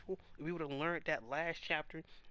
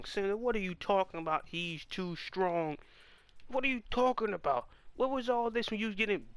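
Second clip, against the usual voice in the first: incredulous retort; 3 semitones higher, 4 dB louder than usual. Real, not acted.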